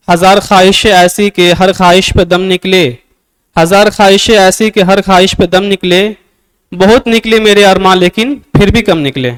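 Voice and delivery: poetic recitation of a couplet; recited as verse. Shown as a demonstration. Teacher reciting a couplet to class in verse style. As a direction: recite the sher with verse rhythm. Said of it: "जैसे कि कोई शेर पढ़ूं मैं".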